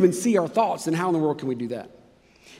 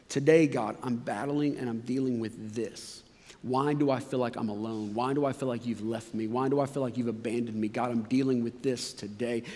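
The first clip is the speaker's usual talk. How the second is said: low, soft, weary prayer voice; hushed prayer; 5 semitones lower, 5 dB quieter than usual. Retold or imitated. Preacher modelling an honest prayer, low and hushed. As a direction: pray it quietly, almost under the breath.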